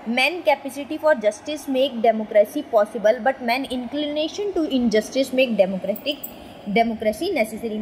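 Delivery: each word laid out very slowly; slow quote reading. Shown as a demonstration. Teacher to students, reading a quote very slowly. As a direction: read the quote slowly and deliberately for the class.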